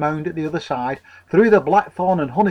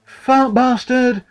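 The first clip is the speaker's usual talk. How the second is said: higher, slow shaken stammer; stuttered; 9 semitones higher, 4 dB louder, much slower than usual. Acted. Shocked vicar's wife stammers at the farmer, stuttering. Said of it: "stuttered Missus Bretherton".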